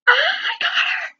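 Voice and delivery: high, drawn-out squealed scream; retold scream. Fan screaming on learning she got Alexis, high mock scream. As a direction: re-enact an ecstatic scream, stretched out high. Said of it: "screamed the house down".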